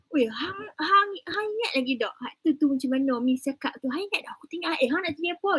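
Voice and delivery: a light playful northern Kedah Malay accent, pitch lifted; northern Malay dialect. Shown as a demonstration. Lecturer shows students a northern Malay accent, playful. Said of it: "Or you wanna do it in bahasa utara".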